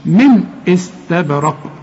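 slow recitation with a short clear n in "من" before "استبرق"; clear unnasalised noon. Shown as a demonstration. Teacher models noon before hamza, slow and clear. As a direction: say "من استبرق" slowly, no hum on the n. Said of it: "ما تغنش".

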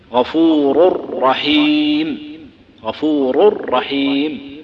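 "غفور رحيم" براء مشددة وبطء شديد; مدّ وشدد الراء في "رحيم"; إدغام التنوين في الراء. Shown as a demonstration. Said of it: "هذا هو الإدغام". (نطق الإدغام بتأنٍ شديد)

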